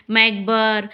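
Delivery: मैकबर said as "mackber", the wrong way students read it; common mispronunciation. Shown as a demonstration. Teacher showing students the mistaken reading, matter-of-fact. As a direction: show the wrong reading मैकबर, both syllables sounded. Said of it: "लेकिन ये गलत है".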